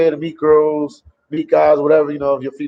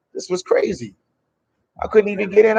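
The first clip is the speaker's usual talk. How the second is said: disbelief; 6 semitones higher than usual. Real, not acted. Frustrated trying to go live.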